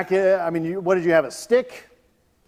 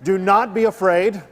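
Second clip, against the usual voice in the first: an angel's calm line, drawn out slowly; a slow soothing angel, tongue in cheek; slow mock angel reassurance. Pastor mimics angels calming frightened shepherds, slow and mock-soothing. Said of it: "That's what angels always say".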